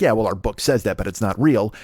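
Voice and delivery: a scoffing aside, lightly acted; scoffing to himself. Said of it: "Pope's kind of scoffing to himself".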